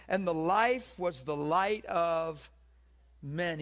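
scripture reading. Acted. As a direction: proclaim the gospel to the hall. Reads scripture aloud.

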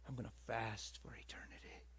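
hushed whisper of eager self-talk. Retold or imitated. Whispering his plan to fast forever to himself. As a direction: breathe it out, excited and secret.

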